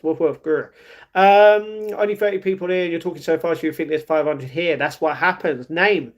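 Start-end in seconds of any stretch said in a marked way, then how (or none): 0.0-0.7 understated woofs and a growl; playful dog noises. Pretend. Streamer talking animals with chat, playful mock barking. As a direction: lightly mimic a doggy bark and growl.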